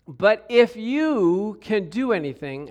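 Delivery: slow, challenging doubt; disrespectful. Acted. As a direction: lean hard and long on IF YOU.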